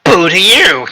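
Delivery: high silly shout; mock yell. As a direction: yell it back playfully.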